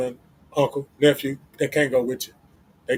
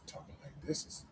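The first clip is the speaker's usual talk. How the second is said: breathy whispered aside; whispering like this; 22 dB quieter than usual. Shown as a demonstration. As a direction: drop to a bare whisper. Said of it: "get to talking like this".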